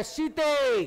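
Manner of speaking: सीते called out with the final vowel drawn long; Ravan calling Sita. Acted. Ravan in a stage play calling out to Sita, lightly voiced. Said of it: "Ravan बोलता है".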